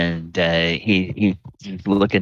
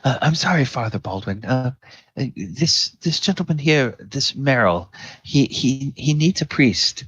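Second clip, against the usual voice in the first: put-on nervous young acolyte; 5 semitones higher than usual. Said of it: "the younger acolyte says".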